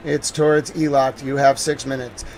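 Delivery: firm, repeated live missile warning; urgent alert announcement. Real, not acted. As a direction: announce it like an emergency bulletin.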